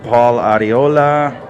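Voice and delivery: put-on slow, light Spanish accent on the name; put-on Spanish accent on a player's name. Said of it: "I don't know why I'm giving it a Spanish accent".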